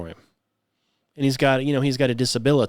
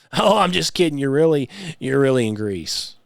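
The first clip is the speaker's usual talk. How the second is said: mock teasing guide. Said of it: "If, if somebody said".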